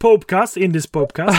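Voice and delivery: jokingly correcting the co-host, loud and high; gleeful correction. Real, not acted. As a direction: pounce on the pun Popecast, then repeat it. Playful correction of the word podcast.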